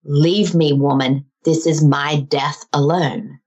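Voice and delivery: lightly voiced commanding warrior, slow at the end; a firm, weighty dismissal from a retold warrior; dying warrior. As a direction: act out a dying warrior's order. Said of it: "he turns to me and he says".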